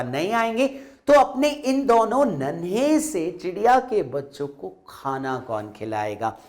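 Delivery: put-on worried child, fading to a hushed end; sadly. Girl worries to her mother about the baby birds, sadly. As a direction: plead sadly, dropping away at the end. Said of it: "जब उसने दुख से बोला".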